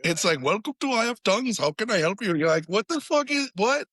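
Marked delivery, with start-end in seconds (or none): 0.4-2.3 higher, chirpy host greeting; mock restaurant host. Friends joke about band name, mock restaurant host. 2.7-3.9 baffled customer. Pretend. Imagined diner baffled.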